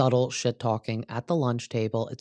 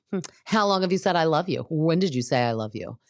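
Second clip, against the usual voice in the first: mock sweet but hostile; 4 semitones higher than usual. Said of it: "asking nice questions, but in a hostile way".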